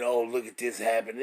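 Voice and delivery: put-on whimpering; mock whining. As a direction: imitate a whiny complainer, rising into a wail. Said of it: "people crying and whining and saying".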